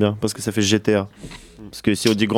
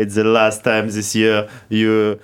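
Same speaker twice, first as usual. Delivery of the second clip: slow, careful English with a French accent; much slower than usual. Shown as a demonstration. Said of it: "Putain, j'ai trop bien parlé".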